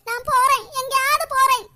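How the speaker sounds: mother-in-law wailing to her son that she'll leave; crying out. Acted. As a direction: cry out loud like she's being driven away. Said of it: "நீ எதுக்கு அழுதுட்டு இருக்கியா?".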